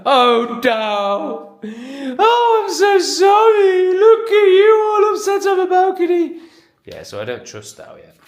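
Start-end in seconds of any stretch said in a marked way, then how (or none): 0.0-6.4 very high, loud, squealing pet voice; puppy talk. Real, not acted. Owner cooing at puppy Dow on the balcony, very high and loud.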